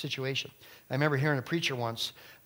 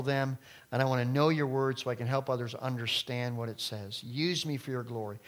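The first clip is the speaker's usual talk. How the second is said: humble prayer. Retold or imitated. Voicing a surrendered prayer.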